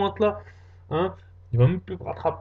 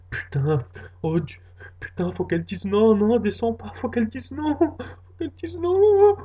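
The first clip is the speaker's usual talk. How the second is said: panicked inner prayer; 4 semitones higher than usual. Acted.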